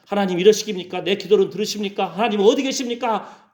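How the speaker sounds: high-pitched string of complaints; acted whiny protest; mock nagging at God. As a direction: pester God with indignant questions. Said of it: "맨날 우리는 까까까까 하잖아요".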